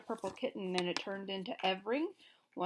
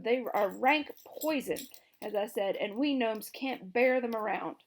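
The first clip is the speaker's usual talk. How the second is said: louder, urgent king; nervous king; 2 semitones higher, 8 dB louder than usual. A narrator's reading. Gnome King nervously explaining eggs are poison. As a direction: explain in a fretful rush.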